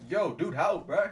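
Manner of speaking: high, loud call for help; acted exasperated appeal; urgent plea. Swimmer still stuck, calling to the lifeguard, mock urgent shout.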